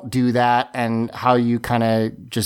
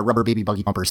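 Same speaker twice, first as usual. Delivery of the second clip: fast tongue twister; 5 semitones lower, much faster than usual. Shown as a demonstration. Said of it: "I can't even do".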